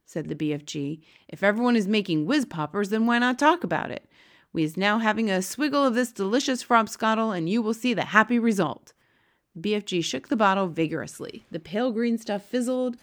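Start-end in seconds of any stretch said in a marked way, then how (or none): 1.3-8.9 lightly voiced giant, emphatic; a hint of an eager giant making his case; Big Friendly Giant. Giant urging Sophie to talk openly, lightly voiced.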